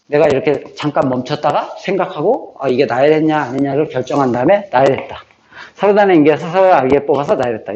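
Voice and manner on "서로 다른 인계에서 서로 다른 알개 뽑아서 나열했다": memorized phrase rattled through as one unit; rote recitation. Shown as a demonstration. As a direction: recite the formula in one run, like vocabulary drilling. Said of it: "말로 하면서 이렇게 영어 단어 외우듯이". (영어 단어 외우듯 줄줄 읊기)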